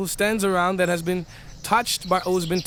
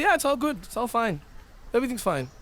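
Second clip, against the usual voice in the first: tag; 5 semitones higher than usual. Acted. Acting out someone excusing riba.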